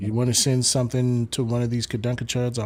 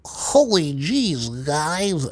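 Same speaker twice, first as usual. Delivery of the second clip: slow, drawn-out put-on white American accent, higher; hammed-up white-guy accent, stretching the words; mock white accent; 7 semitones higher, 6 dB louder, much slower than usual. Streamer trying out a mock white accent for chat, slow and hammed-up. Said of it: "Let's try it".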